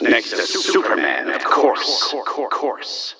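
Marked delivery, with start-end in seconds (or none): 2.2-3.1 echo. Acted. Echo effect repeating line.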